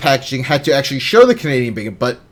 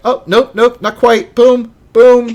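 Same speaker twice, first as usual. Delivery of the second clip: high, loud, quick grabbing the leftover bacon; greedy grab; 8 semitones higher, 5 dB louder than usual. Retold or imitated. Husband snatching bacon off his wife's plate, eager and loud. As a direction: swoop in, nope nope, mine. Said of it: "I'm like".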